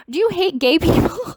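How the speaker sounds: high, pointed disbelieving question; incredulous question. Real, not acted. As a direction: ask it in stunned disbelief. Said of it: "made me go completely bonkers crazy".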